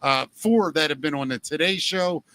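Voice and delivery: bouncy, lightly hyped ad read; sponsor ad read. Acted. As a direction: sell the haunted attraction to listeners. Reads sponsor ad for haunted attraction.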